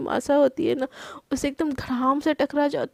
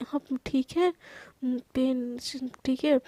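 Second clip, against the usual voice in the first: softer, gentle check on his pain; soft gentle asking; 3 semitones lower, 5 dB quieter than usual. Acted. Wife asks husband softly about his pain while applying balm. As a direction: ask quietly while rubbing balm. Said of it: "एकदम धीरे-धीरे से बोलती कि".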